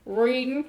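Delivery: reading said as readin' with the final G dropped; Southern dropped G. Shown as a demonstration. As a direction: drop the G, readin' in a Southern drawl. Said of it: "leave the final G off".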